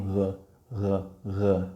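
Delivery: R said low as a G mixed with an R; Greek R sound. Shown as a demonstration. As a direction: growl the R halfway to a G. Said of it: "um G misturado com um R".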